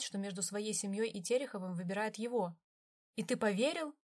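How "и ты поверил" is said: рассерженно. A narrator's reading. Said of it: "рассердился Викенза".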